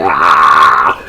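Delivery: mock yell of pain; imitated pain cry. Man getting screwed in torture scene, mock pain cry. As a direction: cry out as if it hurts. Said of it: "He started feeling the pain".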